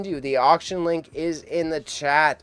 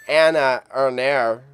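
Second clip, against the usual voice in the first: reading Swedish names in a put-on German accent; 6 dB louder than usual. Streamer reads lot names in a German accent. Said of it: "let's get my German accent prepared".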